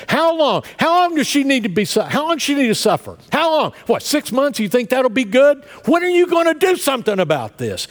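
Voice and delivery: high, loud re-enacted rant at God; angry prayer. Angry husband in the car yelling at God to end his wife's suffering. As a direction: shout the frustrated demand upward again and again. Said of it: "That was my prayer".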